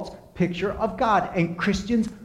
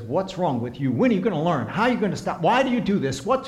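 harsh inner voice; 3 semitones higher, faster than usual. Retold or imitated. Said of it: "And when that internal voice says".

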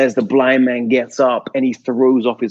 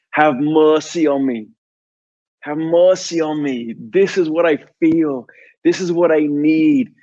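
impassioned prayer; 4 semitones higher than usual. Acted. Poet's prayer of confession.

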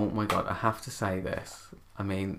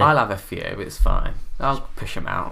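loud jokey boast; 7 dB louder than usual. Acted. Joking about having babies.

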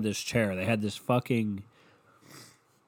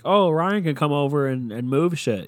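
quoting relatives breezily; 4 semitones higher, 6 dB louder than usual. Retold or imitated. Acting out relatives volunteering him.

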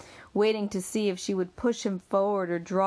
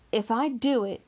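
sobbing; 6 semitones higher than usual. Acted. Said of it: "she sobbed".

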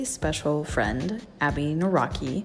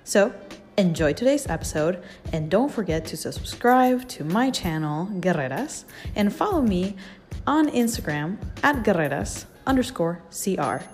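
fuzz distortion. Real, not acted. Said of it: "we apologize for the distorted audio".

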